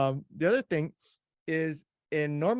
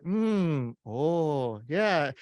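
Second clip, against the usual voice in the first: distracting back-channel noises; 3 semitones higher, much slower than usual. Shown as a demonstration. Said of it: "from this voice off camera".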